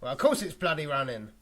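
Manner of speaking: lightly voiced peeved actor; Russell Crowe. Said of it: "you do Russell Crowe".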